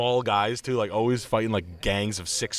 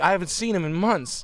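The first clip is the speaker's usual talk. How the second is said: mock informant; 9 semitones higher, 4 dB louder than usual. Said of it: "It's like".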